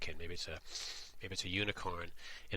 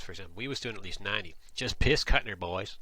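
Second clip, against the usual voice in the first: put-on louder rural speech on "Just piss cutting, boys"; dialect example; 5 dB louder than usual. Shown as a demonstration. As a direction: play the local speeding driver. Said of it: "first you gotta understand how piss cutting works".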